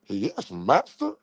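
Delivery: slow, lightly voiced cowed reply; slow meek servant. Streamer playing his rival as an obedient pet, slowly and meekly. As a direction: drag out a submissive answer.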